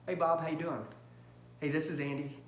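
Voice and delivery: slow, soft phone greeting; slow it down for the call. Shown as a demonstration. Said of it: "I slow down".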